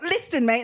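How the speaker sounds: mock dad's "Listen" as "list-en"; sounded T. Dad going off at someone, "Listen" with the T sounded. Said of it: "then he'll be like".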